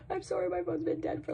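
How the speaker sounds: high, soft squeaky apology; sheepish, high-pitched plea; retold apology.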